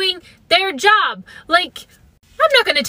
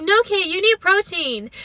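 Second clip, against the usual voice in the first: sister imitated in a higher pitch; 5 semitones higher than usual. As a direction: pitch the sister up higher to get her right. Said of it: "She talks higher".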